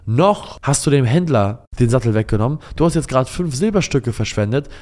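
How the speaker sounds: lightly voiced boy scolding his dad; reproachful child.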